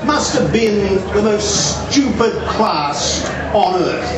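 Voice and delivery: put-on slow, lightly English-accented friend. British friend at the harbour in mild English accent. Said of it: "in his quite genuine English accent".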